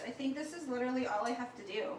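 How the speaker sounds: fast, giggling through the words; laughing. Real, not acted. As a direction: laugh with happy surprise at how easy it is. Delighted at how easy it was.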